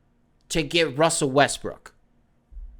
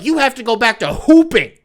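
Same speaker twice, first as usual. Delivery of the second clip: intervention voices; 3 semitones higher than usual. Retold or imitated. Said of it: "And they're like".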